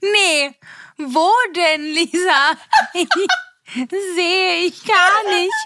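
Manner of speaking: laughing mock denial.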